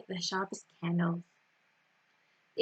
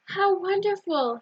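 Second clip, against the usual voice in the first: delighted; 7 semitones higher, 4 dB louder than usual. A narrator's reading. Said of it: "said Mother and Rivkala".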